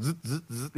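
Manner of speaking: soft, repeated buzzing bursts; mimicked funny zapping; imitated electric zaps. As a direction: buzz like little jolts, one after another. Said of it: "felt, like, a funny zap".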